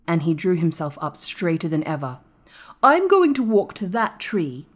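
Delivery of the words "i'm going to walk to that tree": put-on higher, firm boy's declaration; determined boy. A narrator's reading. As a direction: announce it with resolve. Colin voiced declaring his intent.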